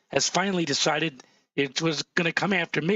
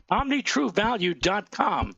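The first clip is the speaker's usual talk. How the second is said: hoarse voice; 4 semitones higher than usual. Real, not acted. Weatherman losing his voice on air, hoarse. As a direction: voice cracking and going hoarse. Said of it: "I'm losing my voice".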